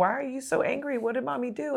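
retold gentle asking of an upset child; lightly voiced soothing mother; concerned mom asking. Retelling mom questioning upset son.

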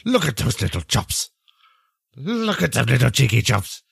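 lightly voiced old man cooing; doting old granddad. Silas cooing at a pet.

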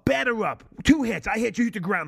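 high, loud hammed-up heckle; mock batter call. Host mocking the Bear Jew's dialogue, hammed-up high shout.

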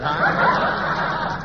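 breaking up laughing through the line. Real, not acted. Comedian cracking up at his own joke, laughing. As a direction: giggle through the ad-lib, can't hold it.

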